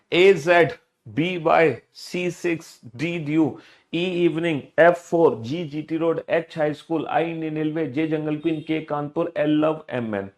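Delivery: rhythmic recitation of letter pairs; reading out loud. Shown as a demonstration. Teacher repeats the list for pupils to copy, reading out loud. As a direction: recite the list steadily, pair by pair. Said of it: "जैसे मैंने जोर जोर से बोल के पढ़ा".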